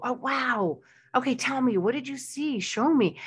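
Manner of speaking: eager, high, curious questions; genuinely interested. Shown as a demonstration. Parent asking the child about a cool video, eager. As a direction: lean in with real wonder. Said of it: "and look really interested".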